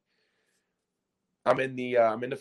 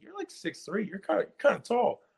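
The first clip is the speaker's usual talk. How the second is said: retold surprise; 11 semitones higher than usual. Retells his surprise at coach's height.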